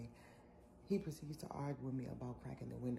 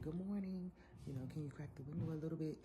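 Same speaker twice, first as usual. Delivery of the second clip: polite request; 3 semitones higher than usual. Retold or imitated. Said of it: "he's a little upset that I said".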